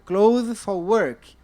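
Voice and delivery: clothes for work said slowly and carefully; slow, careful model of "clothes for work"; slow model phrase. Shown as a demonstration. Teacher to class, slow careful model of a new phrase. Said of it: "teacher modelling phrase".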